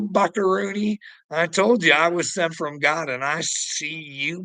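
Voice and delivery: ordinary talk, nothing marked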